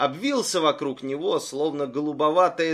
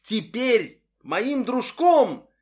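monster echo; 8 semitones higher, 5 dB louder, much slower than usual. Acted.

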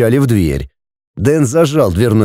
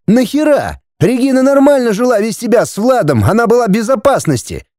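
put-on furious young man; 11 semitones higher than usual. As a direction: hurl it at him. Andrei keeps shouting.

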